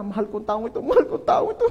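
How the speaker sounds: high, laughing through gritted teeth; mock forced love. Pastor imitates loving an annoying person, high laughing strain. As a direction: say "mahal" while barely holding back annoyance. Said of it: "minamahal mo na".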